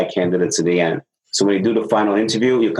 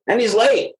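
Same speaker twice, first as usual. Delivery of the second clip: mock upset supervisor; 12 semitones higher than usual.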